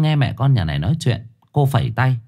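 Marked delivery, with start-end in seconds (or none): none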